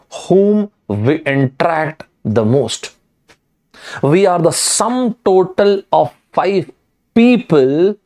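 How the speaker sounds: slow, measured delivery with long pauses; slow, emphatic recital with weighty gaps; deliberate quotation. Acted. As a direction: spell out a key maxim, phrase by phrase.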